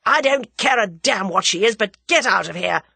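loud yell; top of his voice. Acted. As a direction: roar him out of the room. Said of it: "at the top of his voice".

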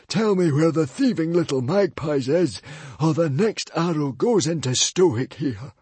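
the librarian aiming at Stoic, demanding; threatening librarian. A narrator's reading. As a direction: threaten them down the arrow.

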